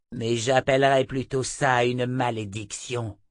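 lightly voiced imperious witch, slowing on the name; scornful seer, lightly put on; haughty seer. Narrator voices Chota the seer.

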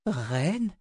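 high, incredulous question; disbelieving. A narrator's reading. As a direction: ask it in shock. Girl in disbelief.

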